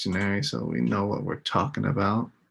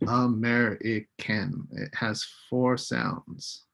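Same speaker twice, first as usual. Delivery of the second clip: slow, each syllable separated; syllables split out; 3 dB quieter, slower than usual. Shown as a demonstration. Teacher sounding out a word for students, slow and syllable by syllable. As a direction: say American beat by beat, A-me-ri-can. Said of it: "this is what we call syllables".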